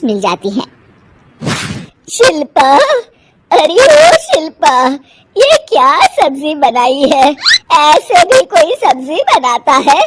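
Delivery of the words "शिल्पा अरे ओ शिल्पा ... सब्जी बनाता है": calling loud then sharp complaint; mother-in-law finding fault; mild mock scolding old woman.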